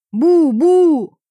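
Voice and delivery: loud, high, slow muffled boom through a mask; muffled gas-mask shout. A narrator's reading. Max shouting through his gas mask, muffled.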